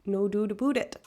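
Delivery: mock Canadian accent on the vowels; badly faked Canadian accent. Shown as a demonstration. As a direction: attempt a Canadian "no doot aboot it". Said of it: "can't even do a Canadian accent appropriately".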